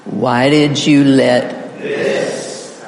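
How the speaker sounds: slow build through "Why did you let" to a long "this"; drawn-out emphasis landing on "this"; stress on THIS. Shown as a demonstration. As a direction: lean hard on "this". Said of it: "we're going to emphasize".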